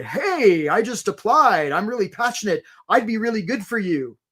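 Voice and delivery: lightly hammed-up keenness with a drawn-out opening; mock eager applicant. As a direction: imitate an over-keen job applicant pitching themselves. Mock eager applicant's wrong follow-up.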